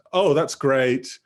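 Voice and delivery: slow demo of being pleased; drawn-out approval. Shown as a demonstration. Teacher models a basic interjection for students, slow approval. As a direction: stretch out "that's great" slowly.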